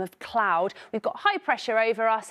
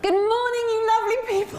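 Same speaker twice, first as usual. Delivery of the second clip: a woeful, hammed-up Cockney greeting, higher and louder; a badly faked Cockney market call; Cockney attempt; 11 semitones higher, 3 dB louder than usual. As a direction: bellow it like a bad stage Cockney trader. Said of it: "Just say".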